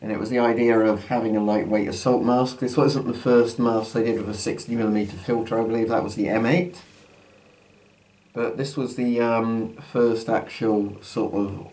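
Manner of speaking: muffled behind a gas mask; talking through a mask. Real, not acted. Mask put on at line 40.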